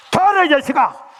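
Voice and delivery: furious shout at her son; angry mother yelling. Retold or imitated. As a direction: roar it like a mother beating her son's chest. (아들에게 소리치는 화난 어머니)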